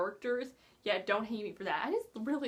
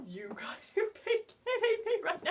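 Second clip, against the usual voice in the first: whispered disbelief; 8 semitones higher than usual. Retold or imitated. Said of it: "Jesper's just like".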